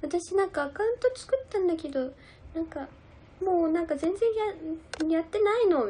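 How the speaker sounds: a hint of Koharu whining about her account, slowing down; imitating Koharu. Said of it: "なんか言ってたよ".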